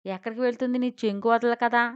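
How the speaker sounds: irritable. Acted. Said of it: "రుసరుసలాడింది".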